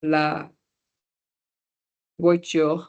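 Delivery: "la voiture" said again slowly for the class; French "la voiture". Shown as a demonstration. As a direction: spell it out in sound. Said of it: "So we would say".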